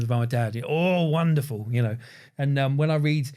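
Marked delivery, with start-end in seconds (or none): 0.7-1.7 "Oh, wonderful," stretched slow and lifted higher; wonderful with passion. Retold or imitated. Showing the host dad's passionate wonderful, slow and higher. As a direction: savour "Oh, wonderful," slowly with mock relish. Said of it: "with passion".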